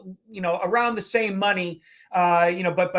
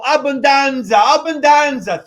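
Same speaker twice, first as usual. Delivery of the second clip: higher, louder hammed-up Italian accent; Italian showman; 7 semitones higher, 9 dB louder than usual. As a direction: belt it out in Italian accent like a tourist-trap maître d'. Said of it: "he started to do the whole".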